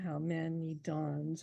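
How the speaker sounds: slow, weight on how; iambic reading. Shown as a demonstration. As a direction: read how many dawns with HOW stressed. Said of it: "it's an iamb".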